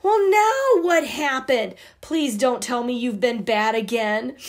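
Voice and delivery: alarmed brother. Acted. Brother finds sisters sobbing.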